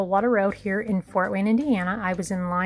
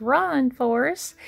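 lightly imitated movie call, higher and slow; retold movie catchphrase; 4 semitones higher, slower than usual. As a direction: draw it out like the famous film line. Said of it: "Just think of Forrest Gump".

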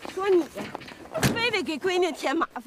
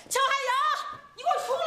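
high-pitched angry call; shouting for someone; 8 semitones higher than usual. Acted. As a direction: call out sharply, ordering someone out. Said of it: "行了，我帮你喊".

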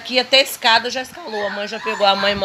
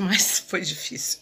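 laughing whisper; 3 semitones lower, 5 dB quieter than usual. Real, not acted. Laughing aside about filming.

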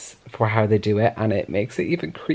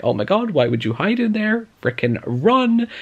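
mock exasperated yell; 10 semitones higher than usual. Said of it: "and I'm like".

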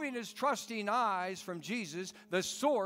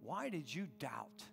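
much lower and much softer, kindly; gentle question; 6 semitones lower, 10 dB quieter than usual. Acted. Jesus quietly asking the sinking Peter. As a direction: ask it softly, almost disappointed. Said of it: "he said".

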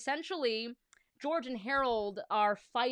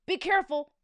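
put-on worried kid voice; 9 semitones higher, 8 dB louder than usual. Harold warning.

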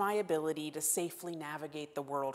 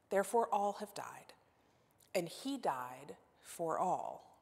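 slow, measured reading of the text; scripture reading; slower than usual. Acted. Pastor reading the Corinthians passage to congregation, slow solemn reading. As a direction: let each phrase of scripture land slowly.

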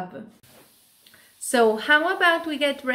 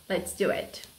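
whisper; 5 semitones lower, 7 dB quieter than usual. Acted. Whispered lead-in to chant.

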